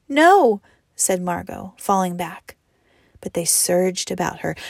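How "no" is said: high, loud cry of no; protesting. A narrator's reading. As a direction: cry out in panic. Margot resists being seized.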